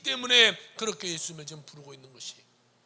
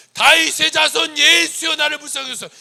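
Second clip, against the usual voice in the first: desperate cry; 11 semitones higher, 17 dB louder than usual. Acted. Blind man outshouting the crowd to Jesus, desperate cry. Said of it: "그는 뭐라고 하냐".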